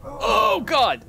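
very high startled yell; startled shout. Real, not acted. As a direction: jump scare scream. Fish attack again.

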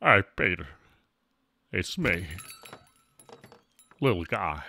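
low voice calling out in short bursts; comic character voice. Pretend. Streamer hailing Peter as a bit, low character voice. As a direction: drop low and hail a pal.

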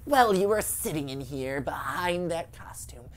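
hushed menacing ghost voice; evil witchy ghost voice. Pretend. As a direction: threaten quietly like a witch. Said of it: "evil, witchy ghost voice".

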